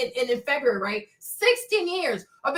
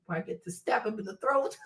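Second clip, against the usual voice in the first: much softer and lower, a mock sinister murmur; 6 semitones lower, 8 dB quieter than usual. Watching her sleeping husband, softly mock sinister. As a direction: murmur it like a dark joke. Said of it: "You watch the person sleep like".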